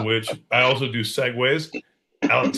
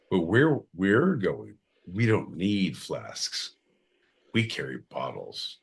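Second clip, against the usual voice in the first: slow mock movie line; 2 semitones lower than usual. Movie-quote parody, slow.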